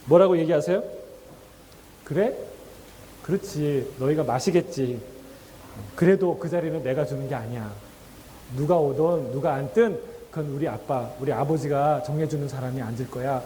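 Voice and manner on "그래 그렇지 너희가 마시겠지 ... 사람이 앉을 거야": lower, soft reassuring answer; gentle and kind. Retold or imitated. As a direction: calmly reassure the eager disciples. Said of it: "정말 따뜻하게, 다정하게 말씀하세요".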